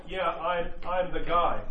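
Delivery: offhand, shrugging Yeah, I'm the guy; casual mock boast. The wrong way God might answer, breezy and casual. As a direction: toss it off like a guy in a bar. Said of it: "And he didn't say, like".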